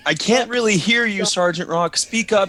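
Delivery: mock straining to hear. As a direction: pretend he can't hear. Teasing the loud sergeant.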